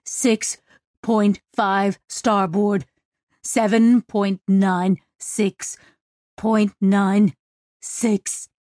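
halting, slow numbers with gaps; laboured coordinate call; gasped readout. Acted. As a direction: force each figure out, pausing between. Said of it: "Ohan gasped".

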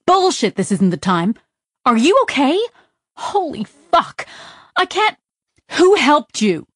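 worried friend yelling in disbelief; frantic shout. Acted. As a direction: fire them off in a frightened rush. Pepper frantic about Sidra.

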